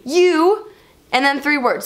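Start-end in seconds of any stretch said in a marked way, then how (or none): 0.0-0.7 higher-pitched mock yell; imitated yell. Driver insulting her, imitated yell. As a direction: throw it out as a mock shout. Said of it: "that he yelled".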